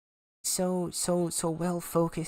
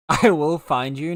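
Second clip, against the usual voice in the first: mock menacing; 9 dB louder than usual. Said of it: "non-menacing-, menacingly".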